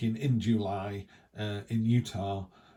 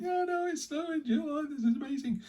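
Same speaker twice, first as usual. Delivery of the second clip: much higher, squealing with delight; the giddy kid inside bursting out; mock-gleeful squeal about snow in July; inner excitement. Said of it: "Inside, I was jumping up and down".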